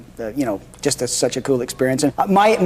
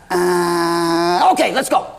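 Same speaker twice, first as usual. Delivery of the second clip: imitating Mickey Rooney; much slower than usual. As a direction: toss the line off without looking. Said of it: "This is how he reads his lines".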